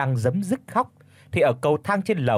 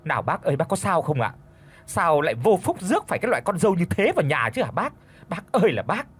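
whiny wheedling; 4 semitones higher, faster than usual. Acted. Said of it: "quay ra tỉ tê".

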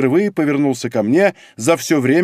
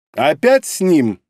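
slow, louder, jealous; angry jealous question; 3 semitones higher, 4 dB louder, slower than usual. A narrator's reading. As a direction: demand it jealously. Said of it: "сердито спросил Греннер". (сердито, с ревностью)

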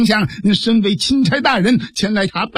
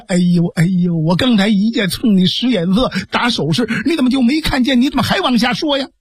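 急切埋怨. Acted. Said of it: "把这个蒋平给急的".

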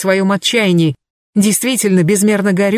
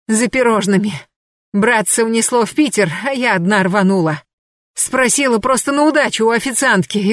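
higher, driven voice of an obsessed woman; Anna's feverish account; 4 semitones higher than usual. Acted. Anna telling Vasilisa what she learned, higher and feverish. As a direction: push each phrase out between blows. Anna explains between blows.

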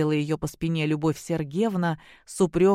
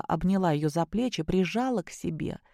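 ordinary delivery, nothing marked

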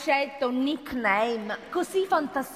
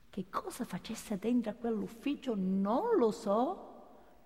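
confiding quietly; 2 semitones lower, 7 dB quieter, slower than usual. Real, not acted. Gossiping about boss's secrets.

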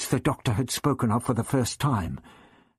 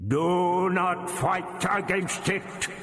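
slow, echoing, chanting command; grating alien voice; 7 semitones higher, much slower than usual. A narrator's reading. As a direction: intone it hypnotically, rising in pitch. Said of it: "The voice grated".

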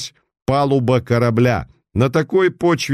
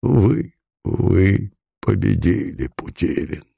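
sobbing defeat; 3 semitones lower, slower than usual. Acted. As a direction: give up through tears. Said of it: "И зарыдал".

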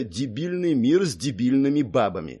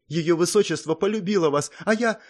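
strained, pale confession; 9 semitones higher than usual. A narrator's reading. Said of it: "с трудом произнесла Сонг".

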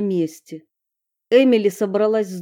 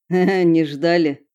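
smiling; 3 dB louder, slower than usual. Acted. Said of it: "улыбнулся парень".

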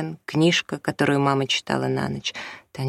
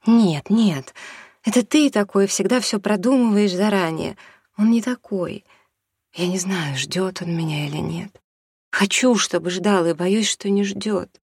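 agitated; 5 semitones higher, 3 dB louder than usual. Acted. Mother's agitated reply.

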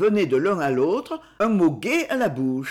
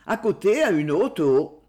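misread stumble. Real, not acted. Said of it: "à côté, à une haute roche".

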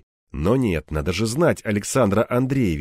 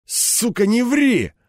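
growled; 11 semitones higher, slower than usual. Acted. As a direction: snarl it at him. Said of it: "рыкнул Кирпич".

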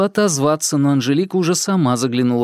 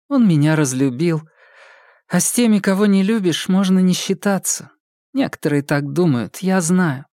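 put-on lightly raised young woman's voice, earnest; Polina's voice; 5 semitones higher than usual. Polina explaining to the detectives, in a lightly raised earnest voice.

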